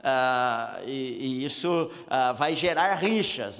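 ordinary talk

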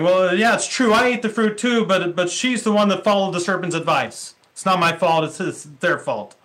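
hammed-up shrugging blame; defensive Adam. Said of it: "Adam is saying".

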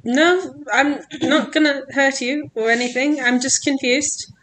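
calm someone who is scared of you; reassuring. Acted. Player reassures a frightened stranger.

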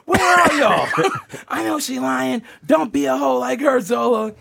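imitating a pimp cursing her out. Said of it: "he starts cursing me out".

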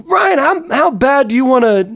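mock Seth. Quoting Seth at the party.

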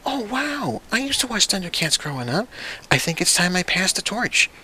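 high, gushing mock parent; excited nostalgic parent. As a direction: gush like a nostalgic dad passing the torch. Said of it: "And it'd be like".

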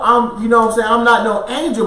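ordinary talk, nothing marked

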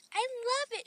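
delighted thanks, lifted in pitch; said with a smile. A narrator's reading. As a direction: smile as you say it. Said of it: "she said with a smile".

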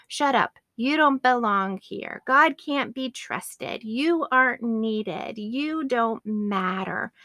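slow, deliberate accusations, word by word; retold taunts. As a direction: spell out each put-down slowly, imitating an accuser. Satan's repeated attacks on her identity.

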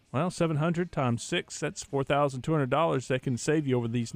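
lightly pitched sponsor read, steady and persuasive; a hint of announcer voice pushing a car deal; live ad read. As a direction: sell the deal like a radio spot. Host reads a dealership ad.

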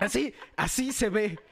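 slow forced grin; forced smile voice. Shown as a demonstration. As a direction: speak through a fake smile. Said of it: "A ver, sonríe ahora sí".

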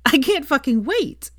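high, slow, relishing voice; gleeful. Acted. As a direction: savour every word of it. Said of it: "said Veronica in admiration".

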